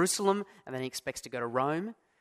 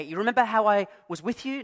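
rising question, higher and louder, stress on "remember"; wrong reading; 5 semitones higher, 6 dB louder than usual. Shown as a demonstration. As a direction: ask it as a question, leaning on "remember". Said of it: "No, no, no".

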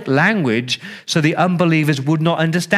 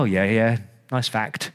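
bored shrug; 4 semitones lower, 4 dB quieter than usual. Pretend. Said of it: "You go".

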